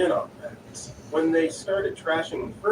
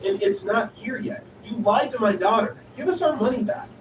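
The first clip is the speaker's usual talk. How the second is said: indignant mother; 6 semitones higher than usual. Retold or imitated. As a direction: build from huffy to outraged. Angry mother demanding refund.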